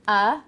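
drawn-out filler uh; a loud hesitant uh; demo filler. Shown as a demonstration. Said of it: "Filler words and phrases".

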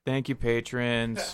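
slow mock formal thanks; mock announcer. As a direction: announce it slowly and grandly. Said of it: "Thank the patrons".

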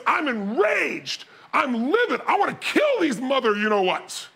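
heated rant with drawn-out stressed words; imitated enraged partner. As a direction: go off like a furious businessman. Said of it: "he goes off".

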